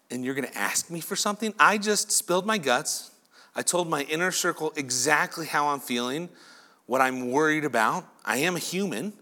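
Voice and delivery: fed-up, incredulous questioning; the preacher imagining Jesus snapping at the mother; exasperated Jesus. Pretend. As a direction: sound hurt and irritated at the bad timing. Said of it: "I know how I would say it".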